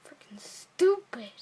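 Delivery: slow whispered put-down; whispered aside. Real, not acted. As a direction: whisper it under your breath, slowly. Muttered insult aside.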